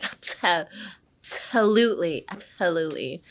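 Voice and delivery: 'absolutely' with 'abso' puffed like a sneeze; little sneeze. Shown as a demonstration. Teacher showing easy flow, sneezy 'absolutely'. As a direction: sneeze the 'abso', then land on 'lutely'. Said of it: "it's like a little sneeze".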